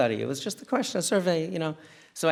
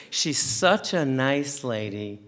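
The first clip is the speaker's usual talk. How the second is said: very slow, drawn-out ironic compliment; sarcastic tone; much slower than usual. Shown as a demonstration. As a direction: stretch each word with mock sweetness. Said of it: "I really said it like this".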